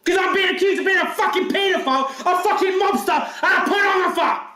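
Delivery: furious shouting rant; yelling, losing control; nervous breakdown. Real, not acted. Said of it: "I'm losing it".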